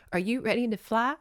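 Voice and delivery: real crying while quoting; Santa's gentle question, said through real sobs; crying through the line. Real, not acted. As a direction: voice wobbling with tears. Tearful retelling of Santa's line.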